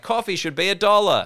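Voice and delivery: high-pitched mock older person; grumbling older adult. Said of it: "every fucking older adult in your life".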